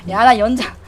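loud frantic shouting; loud protest. Real, not acted. Protesting to other players mid-game, loud frantic shout.

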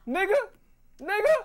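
high surprised yelp; excited. Real, not acted. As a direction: shriek it in delight.

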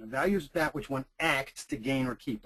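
"acts" set apart as the key word of the definition; stress on ACTS. Shown as a demonstration. Lecturer repeating a definition for students, stress on "acts". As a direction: put clear weight on the word "acts". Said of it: "this is a very important concept, acts".

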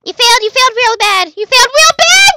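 sing-song gloat; gloating taunt. Acted. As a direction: rub it in. Mocking opponent.

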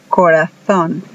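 corazón with a lisped z, like in Spain; Spanish z as th. Shown as a demonstration. Teacher demonstrating corazón with the Spanish z. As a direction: say corazón with the Castilian th sound. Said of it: "Ellos dicen".

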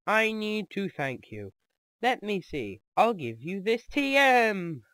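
slow, silly put-on voice; goofy, drawn-out character reading; stupidest voice ever. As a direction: read it out in a deliberately stupid voice. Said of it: "just the stupidest voice ever".

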